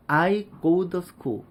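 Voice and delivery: "to" softened to "duh"; "I go duh school" with D in place of T; 원어민식 D 발음. Shown as a demonstration. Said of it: "이렇게 발음하는 원어민들도 있고". ("to"를 "더"로 발음)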